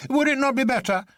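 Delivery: a touch of sharp impatience; a little sharp. A narrator's reading. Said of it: "he said a little sharply".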